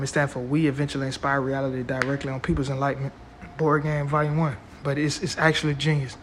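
tired, hoarse-edged voice; voice giving out. Real, not acted. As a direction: talk through a voice that's going. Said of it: "It sounds like I'm losing my voice right now".

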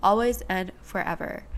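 stuffy, blocked nose; congested, under the weather; nasal voice. Real, not acted. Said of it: "Excuse the sound of my nasally voice".

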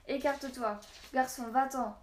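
loud, high urgent cry; shouted warning. A narrator's reading. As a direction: warn the boy away.

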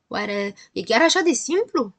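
slow, mildly amazed question; a touch of wonder, drawn out. Acted. Beginner poet asks if rhyming is that simple, wondering. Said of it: "se miră".

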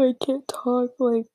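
stuffed-up nose while talking; blocked nose. Real, not acted. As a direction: talk through a plugged nose. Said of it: "it sounds so bad, but it's my nose".

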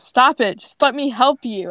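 lightly acted exasperated command; mild growl. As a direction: insist with a touch of anger. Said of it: "Steele growls and says".

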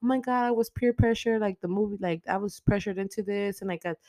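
high, sing-song fake-innocent excuse; mock the killer's lame excuse; a hammed-up airhead girl pleading; mocking whiny teen. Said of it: "she ends up, like, saying".

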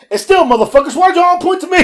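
high, loud aggrieved imitation; comic outraged yell; mock indignation. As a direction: protest like you were unfairly singled out. Acts out passenger's renewed protest.

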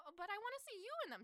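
high, quick mock-girlish pleading; playful coaxing. Heroine wanting him in panda ears, coaxing.

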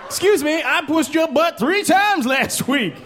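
huffy complaint about past favors; indignant friend. Acted. Jeff protesting to his needy friend, high indignant voice.

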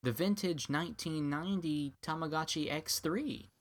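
high, chirpy unboxing host; man mocking a girl's unboxing video. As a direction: lightly play a cheerful video presenter. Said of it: "she was like".

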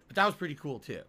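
words pushed out around a burp; talking while burping. Real, not acted. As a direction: speak while holding back burps. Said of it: "I can't stop burping".

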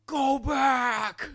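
high, loud, desperate yell; frantic demand. Retold or imitated. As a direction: yell it like a panicking passenger. Brother demands they turn around.

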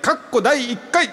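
high, slow, drawn-out title call; grand title announcement. Pretend. Radio host unveiling the first anniversary music festival, grand announcer call. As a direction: proclaim it like an event MC. イベント名を高らかに発表.

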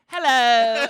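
loud, high friendly hello; gentle hello. Retold or imitated. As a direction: greet sweetly like a big softie. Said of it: "he's like".

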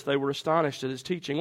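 ordinary delivery

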